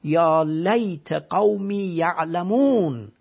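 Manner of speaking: drawn-out chanted Arabic verse, very slow; slow Quran recitation. Acted. Teacher reciting the martyr's verse to the audience in slow chant.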